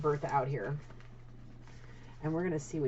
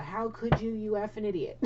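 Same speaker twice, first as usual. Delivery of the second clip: mock angry rant; 4 semitones higher than usual. Voicing angry godmother's rant.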